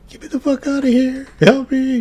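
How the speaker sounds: very high, fast squeaking rat; squeaky rat voice. Acted. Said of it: "still squeaks away".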